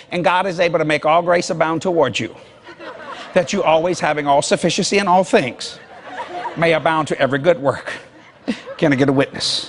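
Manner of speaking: mild, measured reading of scripture; white preacher reading. Shown as a demonstration. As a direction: read it like a reserved white preacher. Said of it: "a white preacher would say it like this".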